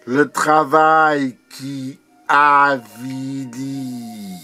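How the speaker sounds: drawn-out poetic refrain; declaimed with long held vowels; measured refrain. Acted. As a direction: recite it slowly, pausing inside the phrase. Poem refrain, first measured take.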